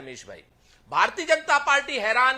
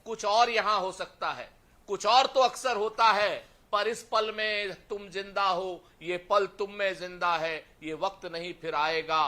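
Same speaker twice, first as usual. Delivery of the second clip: poem recitation; 3 semitones lower than usual. Acted. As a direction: let the verse wind down, line by line.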